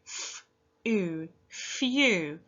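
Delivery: each sound of few said apart, then blended; sounding out letters. Shown as a demonstration. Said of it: "Use your sounds".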